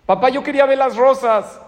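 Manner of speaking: put-on high, loud child's wail; a spoiled child demanding her way; whiny little girl. Little girl wailing at papa for pink candles.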